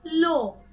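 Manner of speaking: लो with a long, round O; teacher's clear, emphatic लो; O vowel demo. Shown as a demonstration. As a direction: sound out लो with a clear O. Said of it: "ओ की तरह".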